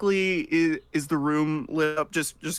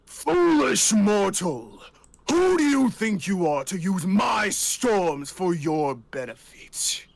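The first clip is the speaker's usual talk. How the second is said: booming god yell; 4 semitones higher than usual. Acted. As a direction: boom it out like an angry storm god. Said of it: "Kelton just boomingly yells over everyone".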